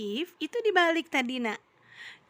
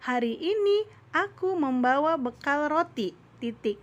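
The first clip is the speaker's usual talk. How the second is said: level tune all the way, no rise or fall; flat statement demo. Shown as a demonstration. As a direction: read it plainly as a statement, pitch kept level. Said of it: "Jadi datar". (kalimat berita dibaca datar)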